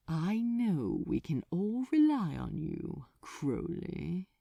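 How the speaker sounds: a touch of warmth, softening at the end; a demon boss lightly turning warm again; warmth restored. Acted. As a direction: reassure him with silky friendliness. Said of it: "the warmth now restored in his voice".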